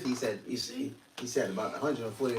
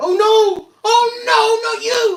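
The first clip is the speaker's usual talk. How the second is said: put-on dying man's cry, higher and louder; 16 dB louder than usual. Retelling Anton LaVey seeing Yahushua on his deathbed: acting out Anton LaVey's deathbed cry. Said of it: "This brother's a good actor".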